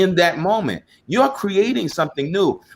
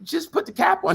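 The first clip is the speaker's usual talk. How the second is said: retold request; 12 semitones higher than usual. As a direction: imitate an exasperated little request up high. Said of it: "I was like".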